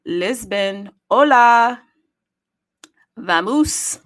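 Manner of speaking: high, loud put-on hype shout; hammed-up Spanish-flavoured hype call; loud greeting. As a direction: shout the greeting like a stadium host. Greeting cities in their languages.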